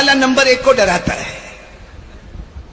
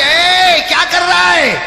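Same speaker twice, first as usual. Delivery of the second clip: loud, higher booming jinn challenge; a jinn catching a smoker in the graveyard shouts; jinn's shout; 5 semitones higher, 4 dB louder, slower than usual. Acted. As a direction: bark it out like a looming jinn from behind.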